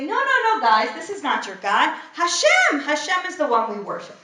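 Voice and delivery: steer the crowd back with urgency; urgent correction. Pretend. Aaron urging the people that Hashem is God, urgent.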